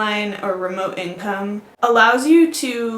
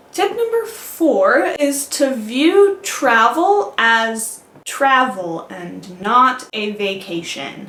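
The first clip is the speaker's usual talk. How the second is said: very slow, deliberate, drawn-out delivery. Giving travel tip number four so listeners can take it in: slow and deliberate. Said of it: "I said that slowly so that you could take it in".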